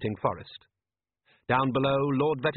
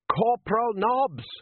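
slow, high called-out name; yelled; 11 semitones higher, 4 dB louder, slower than usual. A narrator's reading. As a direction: bark the name across the room. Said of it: "Colon yelled".

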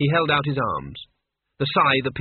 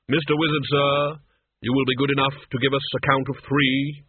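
formally courteous Death. Acted. Death asking Cutwell to count, formally courteous. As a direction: intone the request as Death.

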